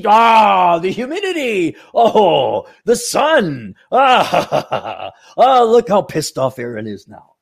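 a hint of a taunting God, laughing; lightly mock the heavens gloating. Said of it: "God is fucking with you".

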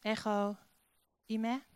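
"Ego ime" said slowly as Greek, each word apart. Shown as a demonstration. Preacher reads the Greek to the church, slowly, word by word. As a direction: sound out "Ego ime" with a pause between the two words. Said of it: "in mijn beste Grieks".

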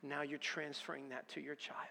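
soft, hushed fatherly correction; God gently showing him the truth; gentle voice of God. Retold or imitated. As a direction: explain it quietly like a patient father. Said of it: "He goes".

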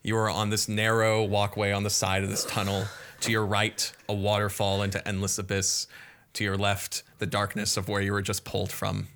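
brisk scene-setting narration; game master scene setting. Acted. Game master setting the scene for the party, brisk narration. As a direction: paint the dungeon for the players.

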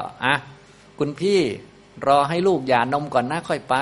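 mildly coaxing wife, pitch lifted at the start; lightly voiced sweet plea to a husband; kind-seeming wife. Wife stalling her husband until the baby is weaned, mildly coaxing. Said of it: "ภรรยาก็ดูใจดีน่าดูนะ".

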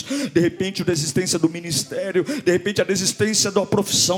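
rising sermon crescendo; building preaching. Real, not acted. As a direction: build urgency clause by clause, then stretch the last.

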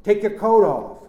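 slow, high shouted instruction; shouting. A narrator's reading. Nephew telling aunt to shed coat, shouting. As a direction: shout it slowly so it carries. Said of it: "I shouted".

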